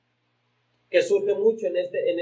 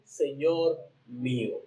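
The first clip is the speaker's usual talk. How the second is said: respectful humble address; 5 semitones lower, 6 dB quieter, slower than usual. Retold or imitated. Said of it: "Con tanto respeto, con tanta amabilidad".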